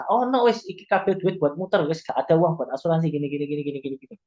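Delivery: mock protest from a cash-strapped client; objecting business owner. Business owner brushing off an insurance pitch, mock objection. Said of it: "misalnya kita ngomong".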